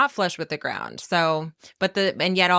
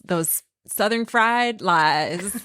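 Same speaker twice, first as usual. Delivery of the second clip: slow laughing tease; much slower than usual. Real, not acted. Teasing thanks, drawn out with laugh.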